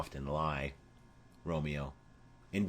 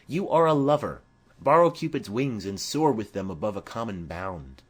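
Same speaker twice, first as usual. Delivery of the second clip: teasing Mercutio; 5 dB louder than usual. Acted. Mercutio teases Romeo about love, bright and louder. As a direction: egg on the lovesick friend.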